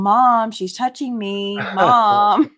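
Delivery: put-on slow, loud whiny kid complaint; whiny tattling little sibling. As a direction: whine to mom about sister. Retold sibling tattling in car.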